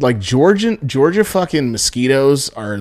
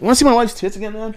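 put-on much higher, eager old man's voice; mock old guy; 9 semitones higher, faster than usual. Teller imitates the old man offering the photo yet again, higher pitched.

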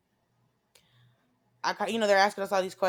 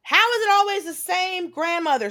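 incredulous question; 11 semitones higher, 6 dB louder than usual. Retold or imitated. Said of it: "I was like".

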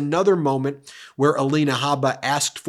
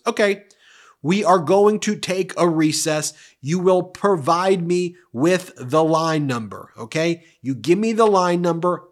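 louder, higher firm ruling; stern judge; 4 semitones higher, 4 dB louder than usual. Retold or imitated. Judge ordering a recess, imitated firm loud voice. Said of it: "And Judge Kaplan goes".

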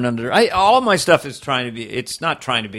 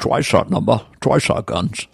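Russell Crowe; 3 semitones lower than usual. Retold or imitated. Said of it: "Russell Crowe".

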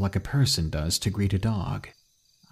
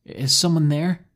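calls out loudly, higher; calling out; 7 semitones higher, 4 dB louder than usual. A narrator's reading. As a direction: call into the dark woods. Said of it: "I called out to it".

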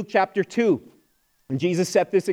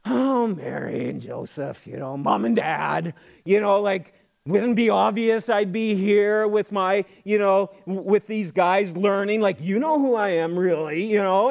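drawn-out imitation of a condescending child; mock disrespectful. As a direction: talk down to mom and dad, lightly hammed up. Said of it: "Did he treat them disrespectfully".

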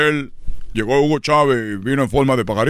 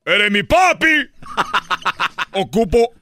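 mock pleading. Begging dead father for money.

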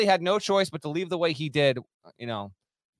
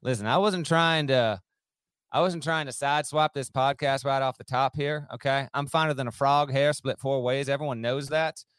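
fake Southern accent; 3 semitones lower than usual. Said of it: "if I keep this up".

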